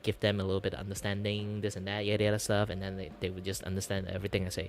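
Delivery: casual Malaysian English; Malaysian accent. Shown as a demonstration. Showing how to talk to friends, Malaysian English. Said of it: "talk like this and then".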